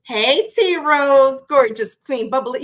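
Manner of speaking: loud, slow, stretched hello; drawn-out greeting. Real, not acted. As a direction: call out to her like a celebration.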